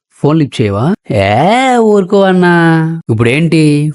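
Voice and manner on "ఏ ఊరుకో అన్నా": dismissive scoff. Acted. Dismissive brushing off again.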